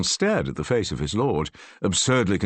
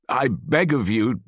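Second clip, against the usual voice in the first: urgent plea; 7 semitones higher, 3 dB louder than usual. A narrator's reading. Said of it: "said urgently".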